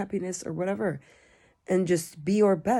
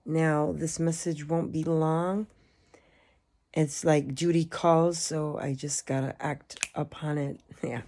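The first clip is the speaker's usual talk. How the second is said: sleepy, groggy voice at bedtime; drowsy groggy voice, half asleep. Real, not acted. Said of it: "I've got groggy voice".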